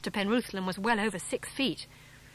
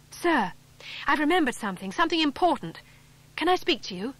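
put-on higher, louder urgent boy; eager rush; 6 semitones higher, 4 dB louder than usual. Boy rushing up to the grim farmer, eager and urgent. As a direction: blurt it out, breathless with news.

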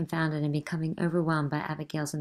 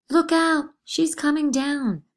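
high, loud terrified shout; girl shrieking at the vision; shrieked warning; 10 semitones higher, 7 dB louder, slower than usual. Acted. Girls shriek in fear.

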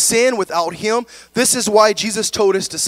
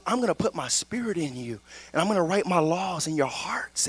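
hushed quote; 6 dB quieter than usual. Acted. Quoting God's promise hushed.

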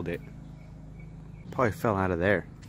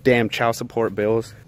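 comic grumble; 7 dB louder than usual. Acted. Joke as a deadbeat dad.

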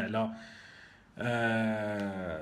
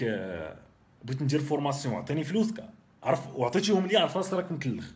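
heated warning; 4 semitones higher than usual. Real, not acted. Heated warning about scammers.

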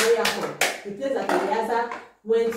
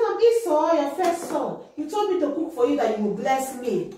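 eager son; 5 semitones higher than usual. Acted. Esau answers father.

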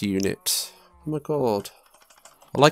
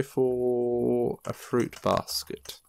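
breathy whisper, drawn out slowly; hushed slow whisper; 5 dB quieter, much slower than usual. Real, not acted. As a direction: whisper it to yourself while crafting. Whispered aside while crafting.

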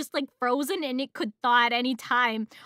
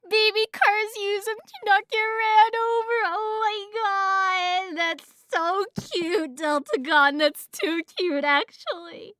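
gushing cutesy squeal; 7 semitones higher than usual. Real, not acted. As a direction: melt with delight in a high little voice. Gushing over cute baby cars.

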